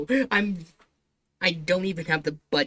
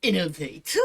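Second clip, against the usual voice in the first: mocking quote. Real, not acted. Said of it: "uh, quotation thing".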